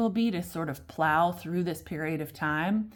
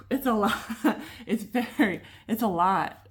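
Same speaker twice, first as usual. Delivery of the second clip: laughing; 5 semitones higher, 4 dB louder than usual. Real, not acted. Laughing at her own heavy reading.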